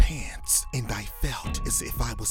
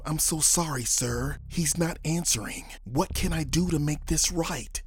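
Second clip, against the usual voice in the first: higher, frantic plea; panicked pleading; 7 semitones higher, 3 dB louder than usual. Acted. Manager pleading with the armed mobster in a higher panicked voice. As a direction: beg for your life. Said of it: "I cried".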